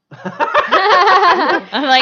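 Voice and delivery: laughing while talking; words break into laughter. Real, not acted. Laughing mid-story.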